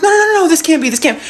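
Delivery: mock panic. Retells panicking at her mistake.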